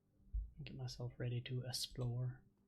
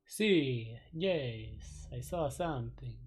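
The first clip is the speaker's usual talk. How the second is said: haunted vampire voice; 4 dB louder than usual. Acted. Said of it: "hard to do a vampire voice for very long".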